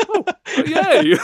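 very high squealed yay; mock cheer. Streamer retelling his joy at the best ending, squealed cheer. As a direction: squeal it with delight.

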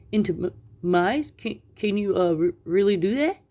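halting, worried question; nervous stammer. Acted. Sylvester backing away from the witch, nervous stammer. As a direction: stumble over the words as you back away.

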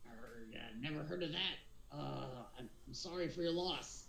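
lightly voiced pirate; a hint of pirate in a mumbled condolence. Captain consoling a centaur, lightly voiced pirate. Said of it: "being able to do a pirate voice".

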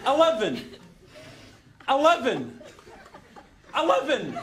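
"Eleven" repeated with the same falling tune; stubborn repetition. Acted. Scot refusing to give up on the lift, "Eleven" doggedly unchanged. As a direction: keep saying "Eleven" identically, pausing between. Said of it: "I'm gonna keep saying it".

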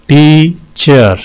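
"टीचर" slowly, in two beats; syllable breakdown. Shown as a demonstration. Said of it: "इसमें भी दो हैं". ("टीचर" दो हिस्सों में धीरे-धीरे)

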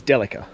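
"Delica" stressed on the first syllable, DEL-i-ca; correct pronunciation. Shown as a demonstration. Driver admitting the proper name of the car, "Delica" as DEL-i-ca. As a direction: say "Delica" as DELL-uh-kuh. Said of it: "the correct pronunciation of my car's name".

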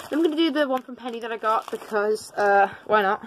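breathless, puffing between words; out of breath. Real, not acted. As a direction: talk while catching your breath. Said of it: "Oh god, I'm so out of breath".

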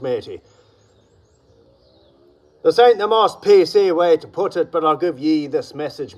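rough pirate talk, every line capped with matey. Acted. Gym vlogger talks to viewers as a pirate, hammed-up pirate voice. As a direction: play a swaggering pirate addressing his crew.

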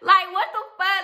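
high, loud incredulous laugh; loud laughing disbelief at the absurd accusation; outraged disbelief. Real, not acted. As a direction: sound like you've entered the Twilight Zone.

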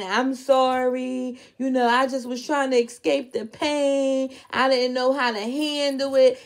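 slow, drawn-out mock tearful apology; imitated crying. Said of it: "Brittany started crying".

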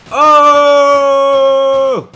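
high, loud startled oh; surprised shout. Real, not acted. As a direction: blurt it out in shock. Reacting to the replayed kill.

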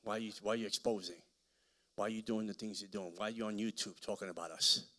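mock witches whining. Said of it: "They call me and say".

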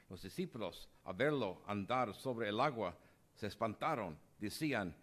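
measured, formal proclamation of scripture; solemn Gospel reading. Acted. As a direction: read it out to the congregation with gravity. Priest reads the Gospel at Mass.

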